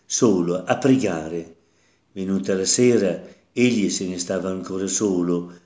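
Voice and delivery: measured liturgical reading voice; Gospel reading. Acted. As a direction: proclaim the scripture to the congregation. Reads the Gospel passage aloud. (lettura solenne del Vangelo)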